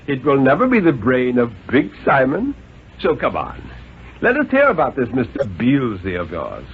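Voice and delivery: a lightly voiced stern, reasoning father; a hint of a condescending father; father's voice. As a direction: coax the boy like a patient but superior dad. Father presses the boy.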